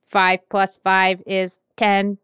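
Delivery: slow robot voice. Retold or imitated. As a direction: say it like a speak and spell robot. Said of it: "that robotic voice".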